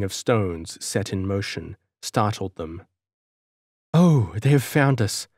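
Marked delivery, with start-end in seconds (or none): 3.9-5.3 frightened cry. Acted. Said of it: "cried the girl".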